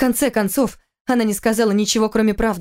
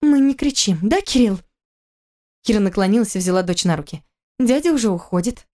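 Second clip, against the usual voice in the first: soothing mother; 2 semitones higher than usual. Acted.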